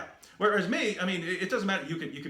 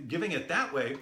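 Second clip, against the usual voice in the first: usual speaking voice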